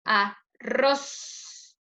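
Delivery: "Arroz" split as a, then a strong RROZ; pause, then lean on the end of "Arroz"; final-syllable stress. Shown as a demonstration. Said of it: "última sílaba".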